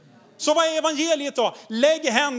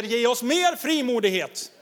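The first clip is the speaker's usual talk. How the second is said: fervent prayer. Retold or imitated. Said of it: "då samlas de och ber".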